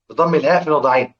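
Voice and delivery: the same phrase rattled off quickly; fast, run-together repeat; quick reading. Shown as a demonstration. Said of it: "اقرأوا كده اهو". (نطق سريع متصل)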